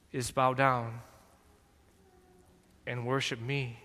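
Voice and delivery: lightly voiced serpent, hushed and sly; hissing serpent. Serpent tempting the Son of God, lightly hissed and sly. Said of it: "the hiss".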